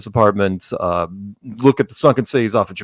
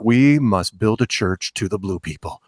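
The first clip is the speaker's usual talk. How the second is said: slow, lower, solemn mock devotee; mock worshipper; 3 semitones lower, 4 dB quieter than usual. Mocking people who would worship a golden spaceship's crew, mock worshipper. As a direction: proclaim it slowly, hamming up the reverence. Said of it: "Or the other people would be like".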